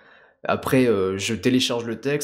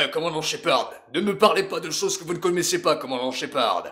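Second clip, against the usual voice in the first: higher, mildly angry official; Udina, angry; 5 semitones higher than usual. Acted. Councillor rebukes Commander Shepard, mildly angry. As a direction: scold like an indignant councillor. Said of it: "un peu plus en colère".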